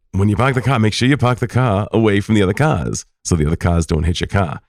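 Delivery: put-on Maine accent with every r dropped; grandpa's Maine accent. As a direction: imitate a grandpa giving advice in Maine accent. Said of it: "joy in hearing that accent".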